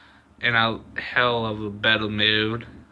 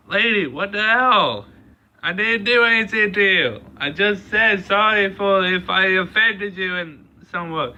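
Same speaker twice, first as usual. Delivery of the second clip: high, louder, fast angry yell at the lady; 9 semitones higher, 3 dB louder than usual. Retold or imitated. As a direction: yell it at her, furious and quick. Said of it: "fucking pissed".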